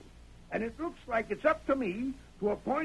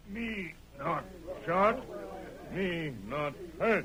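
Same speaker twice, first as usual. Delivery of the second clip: broken-English Tonto; 8 semitones lower, 3 dB quieter than usual. Acted.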